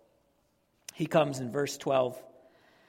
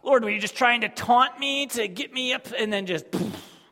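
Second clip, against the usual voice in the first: higher, loud cry at God; mock anguished cry; 6 semitones higher, 9 dB louder than usual. Fired worshipper crying out to the Lord, loud. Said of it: "And it's like".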